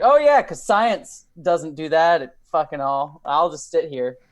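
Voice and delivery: slow, dry sarcasm; sarcastic. Pretend. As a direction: lay on the sarcasm. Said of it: "It's like".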